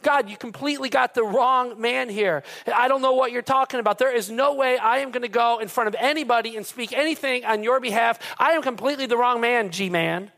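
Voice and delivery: lightly acted Moses begging off; pleading Moses. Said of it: "He says".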